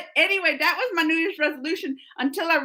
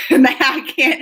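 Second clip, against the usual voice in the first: laughing; 3 dB louder, slower than usual. Shown as a demonstration.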